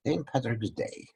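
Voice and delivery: a light, hammed-up Irish accent; teacher tries a playful mock Irish accent. Lecturer jokes for Saint Patrick's Day in a bad Irish accent. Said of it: "if I could do an Irish accent".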